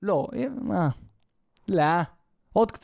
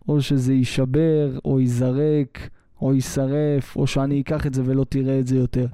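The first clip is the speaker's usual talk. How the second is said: low, weighty dad voice; stern old-school father; 8 semitones lower, 3 dB louder than usual. Acted. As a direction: lay down the law in a deep fatherly voice. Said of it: "אבא שלך היה מסתכל עליך". (אבא קשוח בקול נמוך)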